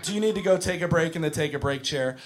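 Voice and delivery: measured preschool-teacher patience; cool, relaxed teacher. Acted. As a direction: keep your temper with a small child. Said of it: "I gotta have a cool head, relaxed".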